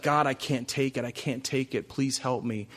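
a hushed, exhausted plea to God; broken quiet plea. Retold or imitated. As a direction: barely get the words out, worn down. Voicing a broken prayer.

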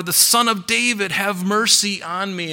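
insistent call, without full shouting. Retold or imitated. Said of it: "he cried out all the more".

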